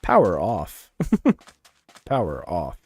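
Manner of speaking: hammed-up speaker announcement; device prompt. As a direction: announce it like a gadget shutting down. Device voice impression continues.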